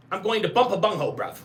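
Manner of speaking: mock British street slang; British accent. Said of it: "You talking in a British accent".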